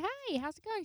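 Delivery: chirpy greeting. Retold or imitated. Retold cheery greeting to boss.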